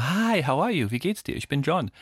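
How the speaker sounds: high, bubbly American greeting; overexcited American. Retold or imitated. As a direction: gush like an overeager Ami. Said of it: "weil du bist so". (aufgedrehter Ami, hoch und sprudelnd)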